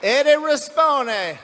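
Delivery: "Eddie Rispone" slow and drawn out, in a put-on Cajun accent. Shown as a demonstration. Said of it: "I try to sound like a coon ass every time I say his name".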